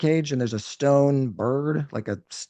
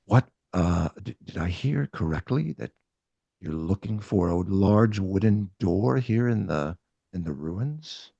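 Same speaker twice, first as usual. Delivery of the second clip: grave Rat King voice; 4 semitones lower than usual. Acted.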